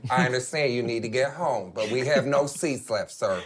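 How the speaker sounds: a hint of a weary gate agent; TSA lady impression. TSA agent telling a passenger no seats left, lightly voiced. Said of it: "this little old lady that works at T S A".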